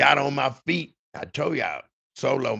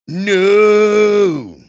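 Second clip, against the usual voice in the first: sudden loud high no; a sharp panicked no; yelled no; 7 semitones higher, 14 dB louder than usual. Retold or imitated. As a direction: blurt it out in panic. Fleeing a shooter, refusing.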